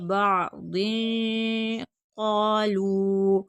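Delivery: बादुन क़ालू very slow, न hummed into the heavy क़ा; hidden n, drawn out. Shown as a demonstration. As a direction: hum through बादुन into a long-held क़ालू. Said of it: "यहाँ पर इख्फ़ा होगा". (बादुन क़ालू, इख्फ़ा और मद के साथ)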